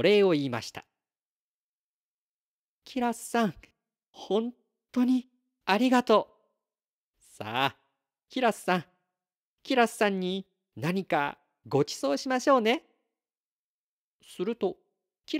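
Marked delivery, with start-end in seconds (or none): 2.8-12.8 高めの声で感謝を込める; 元気になった母として星の子に礼を言う; 心からお礼を言う母. Acted. 治った母が礼を言う. (高く丁寧に演じた母親の感謝)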